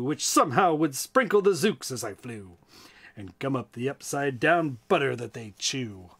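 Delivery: rhythmic rhyming read-aloud; story narration. A narrator's reading. Storyteller reading a rhyme to listeners, with a bouncy lilt.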